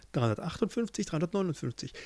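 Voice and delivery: soft counting to oneself; absorbed counting. Acted. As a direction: keep counting quietly, undistracted. Centipede keeps counting to herself. (leise vor sich hin zählen)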